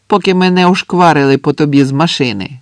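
acted soldier's yell; shouted threat. A narrator's reading. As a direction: shout a warning across to him. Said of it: "крикнув інший".

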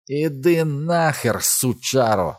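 high, drawn-out cry of abuse; sudden shout. A narrator's reading. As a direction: call it out suddenly, stretching the words. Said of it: "зненацька гукнув він".

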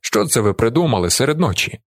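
plain reading voice

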